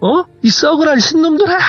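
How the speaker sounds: enraged, tearful scream.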